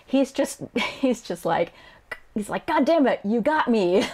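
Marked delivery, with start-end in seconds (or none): 2.7-4.1 frustrated. Acted. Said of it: "I'm just frustrated now".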